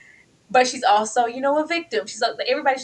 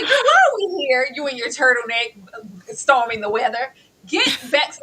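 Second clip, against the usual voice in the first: exasperated mock scold; 2 semitones higher, 3 dB louder than usual. Mock scolding the character Bradley.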